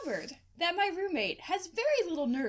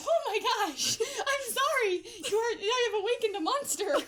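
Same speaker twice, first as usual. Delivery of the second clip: higher, giggling through an apology; laughing apology; 5 semitones higher than usual. Retold or imitated. To the woken roommate, laughing sorry. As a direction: apologise while cracking up.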